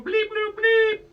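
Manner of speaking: high electronic bleeps imitated by voice; loud piping droid beeps; R two. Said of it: "And R two's going".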